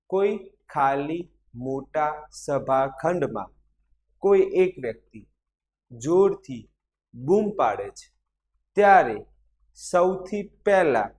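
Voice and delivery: drawn-out phrases with pauses; teacher reading out for note-taking; slow dictation. Acted. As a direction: dictate it slowly, chunk by chunk. Repeats the sentence for dictation.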